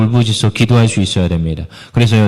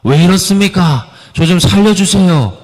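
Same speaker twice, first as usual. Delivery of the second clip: raised, higher pleading cry; pleading complaint to God; 5 semitones higher than usual. Retold or imitated. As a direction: demand answers from God, voice up and pressing. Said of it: "따지는 거예요".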